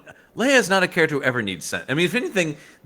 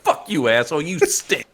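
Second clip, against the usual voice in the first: lightly hammed-up insult, a bit higher at the end; mock defiance; 4 semitones higher than usual. Imitating Leia insulting the Dark Lord, mock defiance. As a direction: hurl it as a gleeful paraphrase. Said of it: "She's like".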